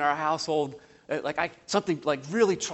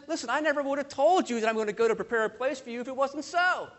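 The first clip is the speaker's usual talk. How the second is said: quick assurance; 5 semitones higher, faster than usual. Acted. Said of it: "he says".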